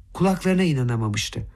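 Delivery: ordinary delivery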